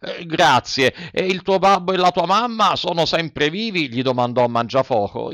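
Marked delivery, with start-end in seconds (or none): 0.0-3.9 lightly voiced gruff showman; a hint of a softened ogre; puppet master. A narrator's reading.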